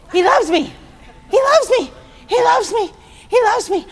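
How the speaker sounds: high, loud, ecstatic cry; joyful exclamation. Retold or imitated. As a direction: burst out with pure joy at the news. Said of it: "I'll go back here".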